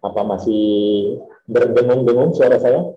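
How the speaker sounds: echoing, buzzing call audio; echoing buzzy audio. Real, not acted. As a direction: sound like a bad echoey line. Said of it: "Masih, Pak".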